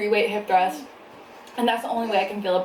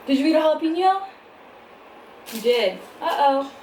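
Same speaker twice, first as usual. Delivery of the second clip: louder, higher, fast concerned mom; surprised mom; 5 semitones higher, 4 dB louder than usual. Real, not acted. Son ate a jalapeno.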